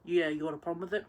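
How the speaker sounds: quick, challenging comeback; mild mock retaliation; defiant retort. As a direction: snap back, lightly defiant. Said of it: "I'm gonna retaliate".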